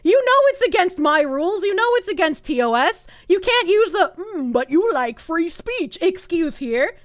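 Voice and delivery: exasperated sarcastic reply to a DM; sarcastic retort. Retold or imitated. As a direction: snap back at Jenny with mock surprise. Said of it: "And it's like".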